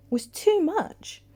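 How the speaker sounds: unvoiced dawning whisper; unvoiced horrified whisper. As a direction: breathe the realisation, horrified. Sonia realising in horror.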